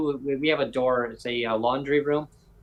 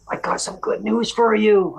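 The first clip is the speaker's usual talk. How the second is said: high, slow, drawn-out good-news voice; teasing announcement; 8 semitones higher, 5 dB louder than usual. Retold or imitated. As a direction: imitate someone dangling juicy news, loud and slow. Manager announces good news, retold.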